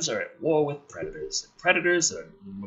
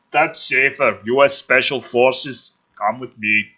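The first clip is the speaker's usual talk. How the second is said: louder, firm military summons; commanding soldier; 6 dB louder than usual. Acted. Soldier at the hatch ordering Schaefer aboard, loud command. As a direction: call him out like an officer.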